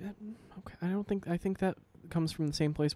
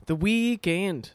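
slow, drawn-out put-on Australian, higher; mock Australian accent; 6 semitones higher, 4 dB louder, much slower than usual. Cohost hams up a drag queen's Friday Australian song. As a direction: stretch it like a campy Aussie drag queen. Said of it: "enough of these songs and accents".

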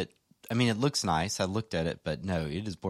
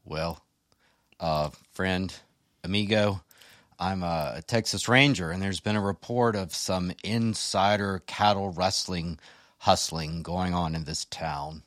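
put-on Texas ranger accent; slower than usual. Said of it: "you're influencing my, fr-, my accent".

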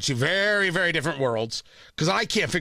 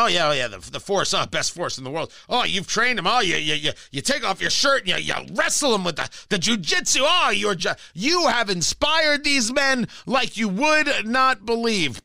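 a hint of fawning generals flattering Putin, a touch louder; lightly hammed-up yes-man praise, slowing at the end; mock flattery; 2 semitones higher, 3 dB louder than usual.

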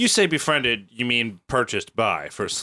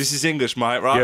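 put-on Cockney accent.

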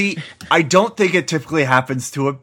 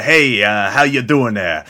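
gruff New Yorker; 3 dB louder than usual. Retold or imitated. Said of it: "kind of a gruff New Yorker".

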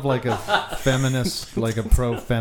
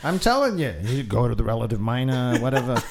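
put-on New York accent. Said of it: "do it in New York accents".

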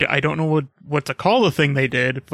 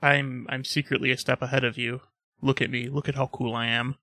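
sneering panto villain; 7 dB quieter than usual. Retold or imitated. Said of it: "less evil laughing, more just like".

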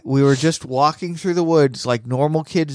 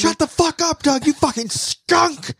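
much higher squeaky cartoon voice; squeaky cartoon insult. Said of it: "That's what he says".

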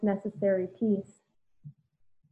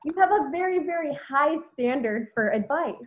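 very said high and stretched, doubled for effect; stress on very; 5 semitones higher than usual. Acted. Admitting to her friend, she stresses very, very high. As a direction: lean hard on very, very. Repeats phrase with more stress.

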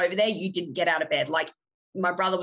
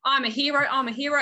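hammed-up hero; 6 semitones higher, faster than usual. Running down hall heroically.

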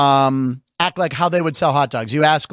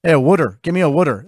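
put-on Philly accent; 3 semitones lower, faster than usual. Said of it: "I can't do a Philly".

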